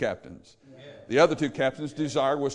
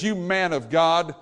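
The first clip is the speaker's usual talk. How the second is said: sarcastic; slower than usual. Retold or imitated. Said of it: "that's sarcasm".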